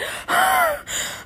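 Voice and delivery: high, exaggerated sigh of exertion; hammed-up winded puff. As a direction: puff out after straining. Winded after reaching remote.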